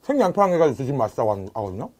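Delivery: speaking between bites; chewing while talking. Real, not acted. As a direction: mouth partly full. Seen 2: bites onion at -1.0, then talks with mouth working food.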